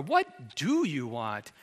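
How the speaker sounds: slow, baffled question; puzzled. Acted. Jesus imagined as baffled by the beggar, puzzled. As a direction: ask as if the problem makes no sense. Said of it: "As in, "Your problem is a great mystery to me".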